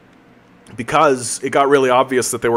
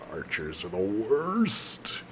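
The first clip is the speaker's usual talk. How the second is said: much softer, slow sighed complaint; sighing defeat; 3 semitones lower, 11 dB quieter, much slower than usual. Real, not acted. Gamer grumbling about archers, soft defeated sigh. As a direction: sigh it out, worn down.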